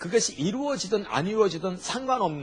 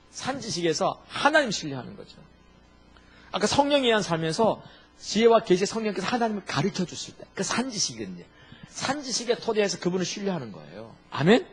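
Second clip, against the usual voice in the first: normal talking voice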